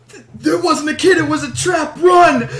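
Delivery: high, urgent acted yell; shouted warning. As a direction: shout to the others as you bolt. Shouts a warning while running upstairs.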